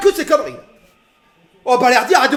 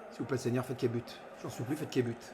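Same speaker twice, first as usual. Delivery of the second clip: much softer, lower, pleading under the breath; hushed prayer; 14 semitones lower, 22 dB quieter, faster than usual. Real, not acted. Fan begging the Lord for the goal, hushed pleading prayer. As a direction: pray quietly that the goal stands.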